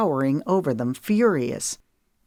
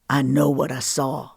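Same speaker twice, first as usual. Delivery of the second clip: lightly voiced hurt man; 2 semitones lower than usual. Cash cold.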